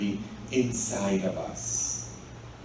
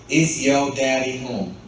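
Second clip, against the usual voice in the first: light mock Southern accent; 6 dB louder than usual. Shown as a demonstration. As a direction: ask it like a preacher from the American South. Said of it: "That is my southern accent".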